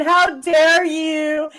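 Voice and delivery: slow, drawn-out mocking how dare you; lightly voiced sneering imitation of a rival; mocking whiny quote. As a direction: parody her indignation, stretched out. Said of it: "Nicolina's bitching to X Factor saying".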